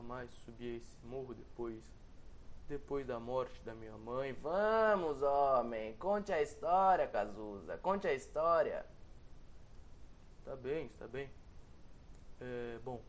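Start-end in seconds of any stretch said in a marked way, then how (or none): 4.3-8.8 eager urging. Acted. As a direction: push him to tell it. Friend urges the story.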